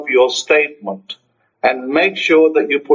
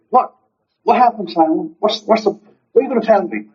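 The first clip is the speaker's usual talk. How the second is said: eager, higher-pitched questions; excited; 6 semitones higher than usual. Acted. Friend on the phone awaiting news, excited. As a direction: act out a friend keen to hear the news. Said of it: "you're all excited to hear".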